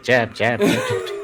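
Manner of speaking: high-pitched mock jab, jab; playful cartoon-style imitation, rising at the end; playful mimicked jabbing. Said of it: "like, jabbing out the fish".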